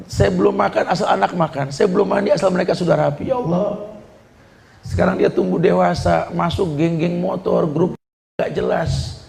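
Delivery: aching parent pouring out grief; a hurt mother laments to the preacher; lamenting parent. Retold or imitated. Parent complains to the preacher, lamenting. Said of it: "orang tua ngeluhnya gitu juga".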